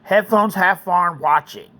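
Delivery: calm storytelling read; story narration. A narrator's reading.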